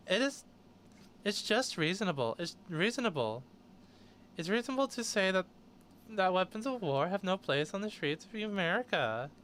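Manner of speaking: lightly put-on Valley Girl voice; Harris. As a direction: read it like a mocking Valley Girl. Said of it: "her quotes in a Valley Girl voice".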